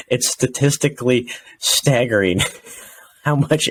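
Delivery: deadpan quote of a comedian's line, barely shifted; quoting Mike Polk. Retold or imitated. Quoting the Factory of Sadness bit, lightly voiced. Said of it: "where he says".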